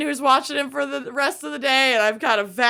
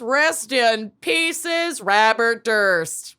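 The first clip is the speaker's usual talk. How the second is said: mock solemn; much slower than usual. Mock eulogy for dead killer.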